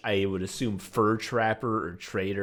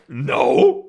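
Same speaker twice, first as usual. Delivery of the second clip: high, loud incredulous no; acted parental disbelief, pitched way up; appalled mom; 12 semitones higher, 9 dB louder than usual. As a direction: blurt it out as a scandalised mom. Mom rejects teacher's claim, acted.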